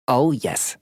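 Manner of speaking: put-on high, bashful elderly voice; a little embarrassed, pitched high; sheepish old lady. A narrator's reading. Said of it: "She smiles sheepishly".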